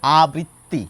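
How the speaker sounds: আবৃত্তি said as abritti, with a held double t; doubled t pronunciation. Shown as a demonstration. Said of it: "আরেক গোষ্ঠী মানুষ বলেন".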